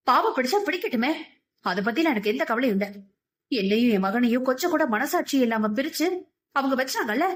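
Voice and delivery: bitter, heated refusal of a wounded mother; furious outburst. Acted. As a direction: lash out at her husband, unyielding. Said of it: "ஆவேசமான குரலில் கௌசல்யா சொல்ல". (ஆவேசமான கோபக் குரல்)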